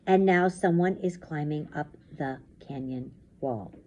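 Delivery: slow storytelling, fading toward the end; suspenseful story narration. A narrator's reading. Reads story aloud.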